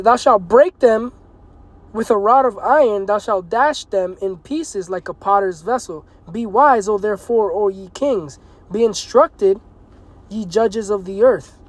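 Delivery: slow, forceful preacher's reading; slow scripture reading. Acted. Preacher warning kings through the psalm, slow and forceful.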